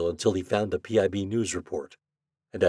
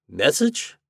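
startled; 7 semitones higher, 5 dB louder than usual. Acted. Shandor startled, eyes wide.

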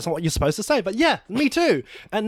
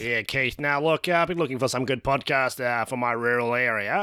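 Australian bloke; 7 semitones lower than usual. Acted. Keith, rural Aussie.

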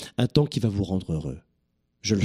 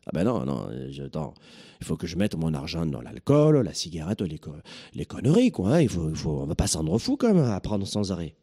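put-on southern French accent; 3 semitones lower than usual. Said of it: "je reprends l'accent du sud de la France".

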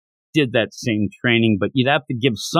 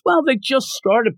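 put-on slow, much higher old-master voice; 13 semitones higher than usual. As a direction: draw it out like a creaky old master. Kame Sennin answers the monk.

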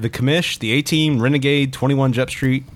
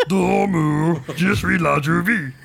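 slow, higher hammed-up French; mock French accent; 6 semitones higher, much slower than usual. Joking that death makes you French, mock French accent. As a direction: lay on a silly fake French accent. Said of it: "It makes you French".

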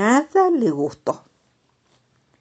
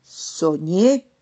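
slow, loud, contented; happy toad voice; 2 semitones higher, 6 dB louder, much slower than usual. Acted. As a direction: savor each word, beaming. Happy toad's final answer.

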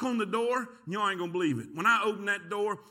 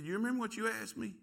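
gentle reproof; 6 dB quieter, faster than usual. Retold or imitated. God speaks softly beside him.

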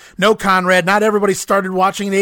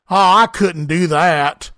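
fake modest reluctance; 4 dB louder, much slower than usual. Retold Conrad feigning reluctance.

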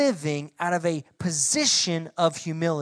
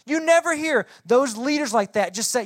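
rising preacher emphasis; 5 semitones higher, 5 dB louder than usual. Real, not acted. Preacher building up.

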